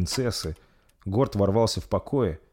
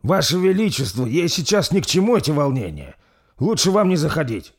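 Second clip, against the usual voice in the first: urgent knight; 8 semitones higher, 6 dB louder than usual. Acted. Knight restraining the prince.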